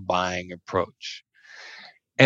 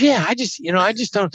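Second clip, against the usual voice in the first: dismissive shrug; 9 semitones higher, faster than usual. Retold or imitated. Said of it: "He goes".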